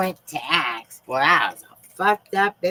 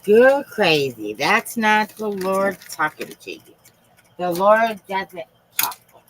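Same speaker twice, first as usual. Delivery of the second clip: raised, insistent mock accuser voice; mocking the doubters; 6 semitones higher, 3 dB louder than usual. Imitating people who call her crazy, mock scolding. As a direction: play the scoffers, higher and pushy. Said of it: "They tell me I'm crazy".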